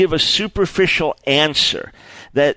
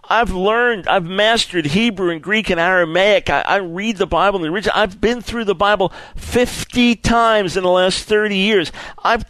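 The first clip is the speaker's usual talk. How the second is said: mildly acted desperation, pitch climbing; broken seeker; 4 semitones higher than usual. Seeker begging a Bible reader for answers, mildly broken. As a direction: plead with mounting frustration, lightly acted. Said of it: "they're broken".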